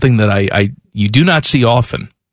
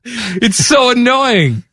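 vocal fry; 8 semitones higher, slower than usual. Shown as a demonstration.

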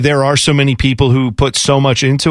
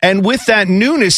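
crypto bro; 3 semitones higher than usual. Retold or imitated. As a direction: lightly mimic a hyped crypto bro. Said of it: "sounds like every crypto bro".

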